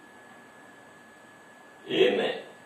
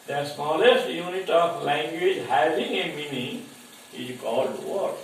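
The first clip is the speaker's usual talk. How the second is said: slowed down, each word spaced for notes; slow dictation. Shown as a demonstration. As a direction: say it slowly so students can write it down. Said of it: "teacher repeats definition for dictation". (धीरे-धीरे लिखवाते हुए)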